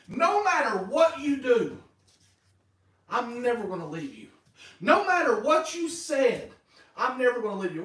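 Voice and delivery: loud emphatic paraphrase, punching each No; pastor's own punchy retelling of God's promise; his own version. Pretend. Preacher to congregation, loud emphatic paraphrase. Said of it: "He could say it this way, ... his own version".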